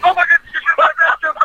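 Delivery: high, drawn-out squeal of shock; shocked exclamation. Real, not acted. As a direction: stretch it out, startled and high. Band tickling him mid-interview.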